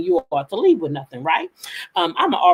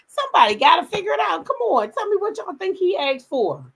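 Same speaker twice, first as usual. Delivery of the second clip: tag; 11 semitones higher than usual. Real, not acted. Urging viewers to guess.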